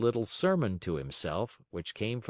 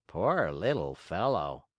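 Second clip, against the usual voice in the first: lower, slow sympathy; pitying; 4 semitones lower than usual. A narrator's reading. Glowworm stops to look at the trapped marionette, pitying. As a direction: gently feel sorry for him. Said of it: "stopping to look at him with pity".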